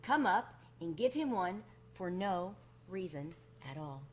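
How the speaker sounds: put-on gentle read-aloud to children; storybook narration. A narrator's reading. Reader telling children about the Wemmicks, gentle storybook narration. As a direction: tell it like a bedtime story to kids. Reads a children's picture book.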